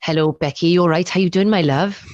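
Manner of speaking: imitated broad Welsh greeting; strong Welsh accent. Quoting the Welsh friend greeting the host, strong Welsh accent. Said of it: "strong Welsh accent".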